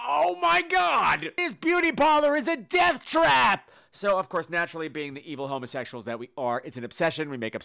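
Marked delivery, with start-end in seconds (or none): 0.1-3.7 high, slow, loud shriek of horror; hammed-up shock at a smoking hairdresser; mock horror. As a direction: gasp it out like a horrified onlooker. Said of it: "I'm like".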